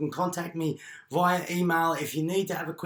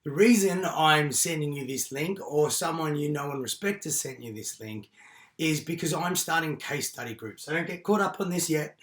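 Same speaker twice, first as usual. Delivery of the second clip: hoarse voice. Real, not acted. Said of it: "So excuse my voice, I've just had bronchitis".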